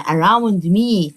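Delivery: Around me stretched very slowly, aw sound clear; slow modelled phrase. Shown as a demonstration. Teacher modelling Around me slowly for first graders. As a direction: pronounce Around me slowly for beginners. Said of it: "Me يعني أنا".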